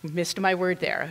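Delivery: normal talking voice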